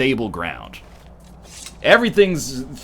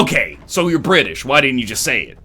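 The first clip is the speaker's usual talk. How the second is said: mock exasperated retort; 3 dB louder than usual. Imitates exasperated questioner's retort.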